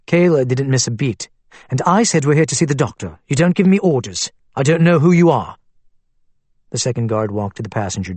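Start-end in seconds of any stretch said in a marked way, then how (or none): 1.7-5.6 rising, louder defiant comeback; defiant retort. Acted. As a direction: refuse the guard's orders. Kayla defies armed guard.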